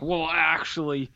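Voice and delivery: imitating a condescending explainer, pitch lifted; know-it-all film buff. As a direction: correct them like a smug cinephile. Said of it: "there's people who's like".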